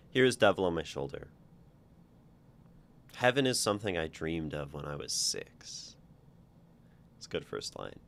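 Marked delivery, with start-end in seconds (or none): 0.1-6.0 measured poetry recital; poem reading. Acted. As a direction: read it out as verse, line by line. Reads a poem aloud.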